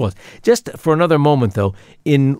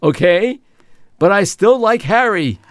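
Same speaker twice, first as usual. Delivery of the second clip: put-on Brooklyn Jewish accent; 6 semitones higher than usual. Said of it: "Brooklynese, old-fashioned Jewish accent".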